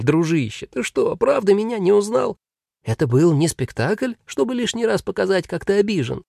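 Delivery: relieved to finally manage it; grey demon voice. Acted.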